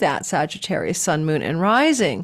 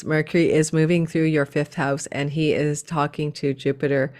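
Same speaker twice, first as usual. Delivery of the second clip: monotone voice; 4 semitones lower than usual. Shown as a demonstration. Showing viewers how dull YouTubers sound, monotone. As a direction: read it like a bored robot. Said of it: "let's try it in a monotone voice".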